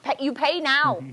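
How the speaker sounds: lightly imitated comedian's accent; a hint of the comic's put-on accent; Ronnie Chang's accent. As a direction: mimic the comic's accent on his punchline. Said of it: "that's how he talks in his thing when he's doing the accent".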